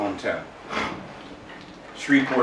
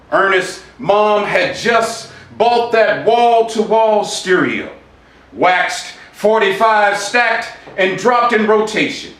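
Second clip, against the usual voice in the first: spoken word poem. Acted. Reciting his Shreveport poem to an audience, rhythmic spoken word. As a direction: read it like a spoken-word performance, savouring each image.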